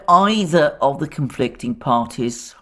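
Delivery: "either" picked out from the phrase; stress on EITHER. Real, not acted. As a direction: lean on "either", then let the rest follow. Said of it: "I stress that word".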